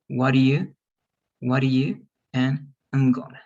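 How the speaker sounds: "What do you" linked, "I'm gonna" cut to "mgonna"; contracted forms. Shown as a demonstration. Teacher recapping the drill before students read, contracted. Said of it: "Let's practice only the second form".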